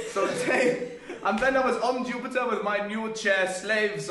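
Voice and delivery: lively villain boasting, half-laughing; maniacal rant. Acted. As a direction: brag like a cartoon overlord. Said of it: "please commence your mania".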